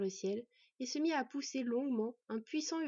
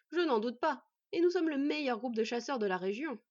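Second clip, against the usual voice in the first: louder, ironic boast; mocking; 3 semitones higher, 6 dB louder than usual. Bandit chief matching boy's irony, mockingly. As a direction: play along with mock courtesy. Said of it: "répondit l'homme sur le même ton".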